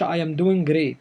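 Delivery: "great" with an untrilled R; don't roll the R in "great"; soft English R. Shown as a demonstration. Teacher warns learners not to roll R, soft English R. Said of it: "ما بننطقش الر".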